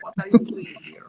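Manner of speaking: high-pitched imitation of a Polish grandmother's accent. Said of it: "she had this great rich accent".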